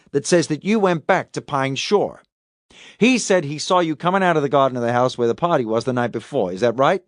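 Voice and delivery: lightly voiced detective laying out evidence, pitched a little up; interrogating detective. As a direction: press the suspect with each fact. Detective questioning the suspect in a story.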